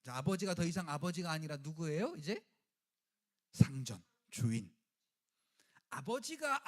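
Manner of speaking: ordinary delivery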